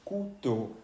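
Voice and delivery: "couteau" as koo-toh, falling at the end; slow French reading. Shown as a demonstration. Teacher repeats the word for knife, OU as oo. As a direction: say "couteau" in two even syllables. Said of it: "entonces se lee couteau".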